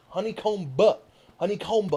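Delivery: honeycomb with the silent B sounded, honey-comb-b; hard B in honeycomb. Retold or imitated. Mocking an ASMR artist who says honeycomb with the b sounded. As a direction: honeycomb ending on a clear b. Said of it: "She was saying the B".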